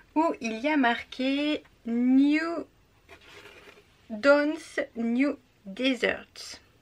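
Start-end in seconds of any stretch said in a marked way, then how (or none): 1.9-6.6 very slow, put-on English accent, "New" drawn way out. Showing a tote bag, reading its printed English words, in an English accent. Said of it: "avec mon superbe accent anglais".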